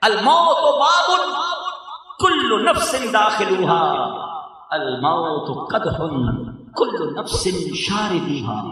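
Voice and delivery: slow, measured recitation of Arabic couplet; recited Arabic verse. Shown as a demonstration. Preacher quoting an Arabic couplet about death, slow solemn recitation. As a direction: intone the verse slowly with weight. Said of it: "بڑا پیارا ایک شعر ہے".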